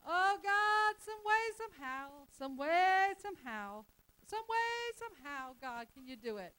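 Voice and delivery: high, loud wailing "some way, somehow"; mock desperate pleading. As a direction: ham up a panicky begging prayer. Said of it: "Is that faith? ... That's a mess".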